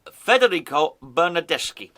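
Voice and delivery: Federico Bernardeschi in a muddled, not-quite-Italian accent; a stab at Italian that misses; fumbling Federico Bernardeschi in a vague Italian accent; botched Italian accent. Shown as a demonstration. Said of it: "I don't know what accent I did that in".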